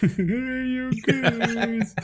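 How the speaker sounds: laughing through the words; drawn-out giggling Goonies. Real, not acted. Laughing at friend's word.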